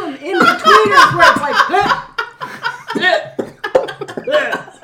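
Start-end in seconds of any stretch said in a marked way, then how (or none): 1.7-4.7 smoker's rasp. Pretend. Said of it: "smoker's cough in between".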